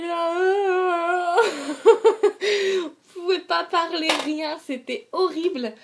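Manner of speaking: talking through gauze compresses; after wisdom teeth. Real, not acted. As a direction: mouth full of gauze.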